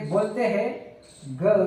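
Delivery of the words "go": British go. Shown as a demonstration. Teacher contrasting British and American, British go. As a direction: go with a British au glide, like gau. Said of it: "British English में".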